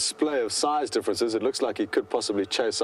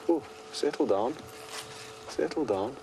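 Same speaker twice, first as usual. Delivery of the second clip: calming; 5 dB quieter than usual. Real, not acted. Calming elephant pushing car.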